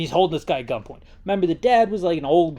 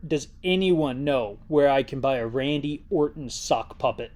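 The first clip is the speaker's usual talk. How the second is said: ordinary talk, nothing marked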